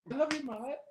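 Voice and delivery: squeaky ad brother. Retold or imitated. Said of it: "Tim and Eric".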